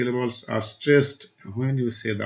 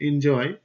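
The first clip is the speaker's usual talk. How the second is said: "এনজয়" with a little more force on the second syllable, জয়; stress on জয়; 3 semitones higher, slower than usual. Shown as a demonstration. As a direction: lean lightly on জয় in "এনজয়". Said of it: "জয় শব্দটাকে আমরা একটু জোরে বলি".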